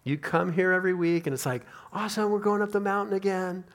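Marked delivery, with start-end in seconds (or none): 1.9-3.6 high, sustained upbeat exclamation; eager cheer. Acted. Churchgoers arriving for the weekly climb, eager cheer. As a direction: voice a churchgoer's ready enthusiasm, higher.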